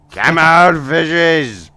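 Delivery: loud, high holler down a hole; shouting. Acted. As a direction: yell for them to come out. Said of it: "keeps shouting there, like".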